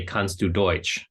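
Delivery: "Kannst du Deutsch?" said slowly in German; German phrase. Shown as a demonstration. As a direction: read out "Kannst du Deutsch?" as a German speaker would. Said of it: "they'll just say".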